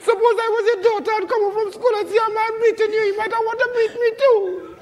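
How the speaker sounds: tearful protest. Acted. Son tearful, defends himself.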